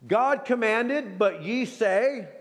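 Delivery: slowed right down, each phrase weighed; slow, weighty preacher's contrast; slow deliberate contrast. Shown as a demonstration. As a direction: lay out the contrast slowly, word by word. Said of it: "Hold it".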